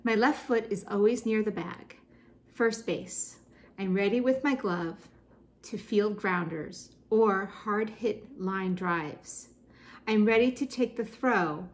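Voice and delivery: deliberate verse reading with line breaks; poem reading. Acted. Teacher reads a first base poem aloud, deliberate recital.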